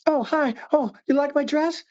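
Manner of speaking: high, sing-song flirty lift; suggestive lifted tone. Shown as a demonstration. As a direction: fish for a compliment with a lifting tune. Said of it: "Notice the way I said that. Notice the tone, the lift".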